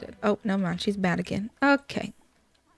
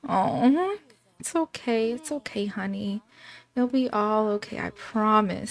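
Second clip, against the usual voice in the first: soft, hushed consoling; tender comfort; 5 dB quieter than usual. Acted. Aunt soothing grieving girl, softly tender. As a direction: gently reassure a grieving girl.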